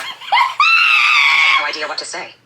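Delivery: shouting the words out through laughter; laughing through the line. Real, not acted. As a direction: lose it while reading aloud. Reader cracking up mid-sentence.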